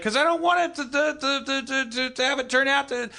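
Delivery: high whiny Hitler. Retold or imitated. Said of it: "And he's like".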